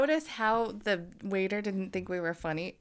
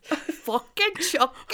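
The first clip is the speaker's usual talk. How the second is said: mock wail; 7 semitones higher, slower than usual. Running Chucky gag.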